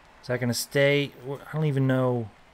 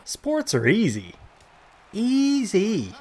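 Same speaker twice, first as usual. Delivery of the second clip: mock bravado; 8 semitones higher, much slower than usual. Mock boasting after a good play.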